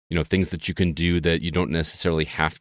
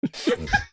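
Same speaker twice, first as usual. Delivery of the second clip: hyena laugh; 3 dB quieter than usual. Real, not acted. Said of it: "They love your laugh".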